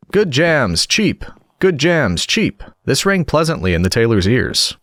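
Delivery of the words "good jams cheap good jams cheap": high, sing-song hawker's call; street vendor's cry. A narrator's reading. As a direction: call out your wares up high, like a market woman. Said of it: "down the street crying".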